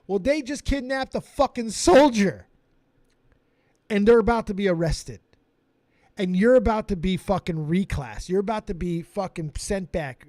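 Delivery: drill sergeant yelling. Retold or imitated. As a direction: lay down the punishment at full volume. Sergeant yells the verdict.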